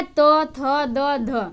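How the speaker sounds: तो थो दो धो, each said with the tongue touching the teeth; dental consonant demo. Shown as a demonstration. Teacher demonstrating dental sounds to students. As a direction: sound out तो थो दो धो one by one. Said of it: "तो का उच्चारण स्थान क्या है".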